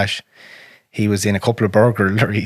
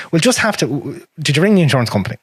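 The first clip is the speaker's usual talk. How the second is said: imitating dad; 5 semitones higher than usual. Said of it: "And he'd be like".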